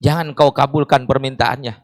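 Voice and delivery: understated, hushed command; gentle divine refusal. Acted. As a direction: quietly hold them back, low and unhurried. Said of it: "Tapi Allah mengatakan".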